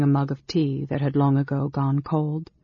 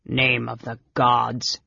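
understated astonishment, drawn out slowly; slow, taken-aback exclamation; 3 semitones lower, slower than usual. Acted. Big brother finding the eavesdropper, mild astonishment. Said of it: "Caramon said in astonishment".

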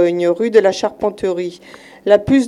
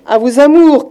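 high shouted flea voice; flea shouting; 5 semitones higher, 8 dB louder than usual. Acted. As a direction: call it out high and loud. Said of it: "crie la puce".

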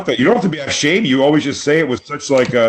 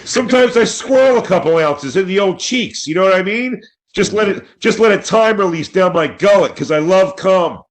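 hammed-up boast, pitched up; mock shout; 6 semitones higher than usual. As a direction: bellow it like a proud confession. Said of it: "why are you yelling it at us".

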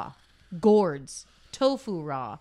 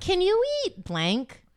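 game show host voice; 11 semitones higher, slower than usual. Shown as a demonstration. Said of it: "Let's do questions again".

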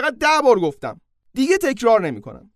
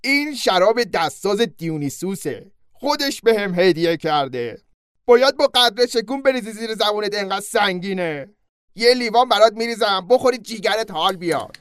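proud centaur host. Acted. Centaur host pouring Hercules the god's wine, proudly. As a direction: brag about the gift wine.

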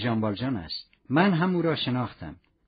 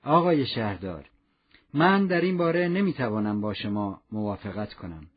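calm, lower-pitched reply; 7 semitones lower than usual. A narrator's reading. Javert disagrees with the mayor, calm and low-pitched. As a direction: answer calmly, dropping the pitch. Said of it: "با صدای آرامی گفت".

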